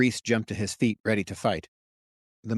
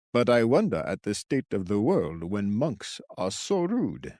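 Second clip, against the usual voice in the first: put-on old man voice.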